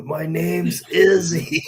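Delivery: slow words through real laughter; chuckling through the joke name; laughing. Real, not acted. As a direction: laugh while saying the fake name. Joking about fake name Izzy.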